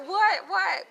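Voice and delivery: high, loud urgent "what, what"; desperate to hear the gossip; excited demand. Real, not acted. She demands to know who.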